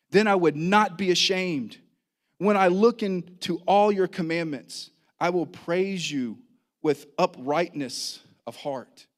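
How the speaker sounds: deliberate, emphatic psalm reading with weighty pauses; scripture reading. Real, not acted. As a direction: proclaim the psalm to the congregation. Reads psalm aloud to congregation.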